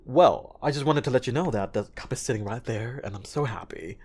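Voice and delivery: put-on fluent TV-role English; lightly acted, accent-reduced English; hundred-percent English for TV. Shown as a demonstration. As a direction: play a TV character with the accent tidied away. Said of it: "can you speak a hundred percent".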